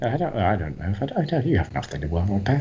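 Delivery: mock-reassuring Cockney villain; Cockney menace. Shown as a demonstration. Joining the Cockney bit, falsely reassuring accent. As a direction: play innocent in a Cockney accent.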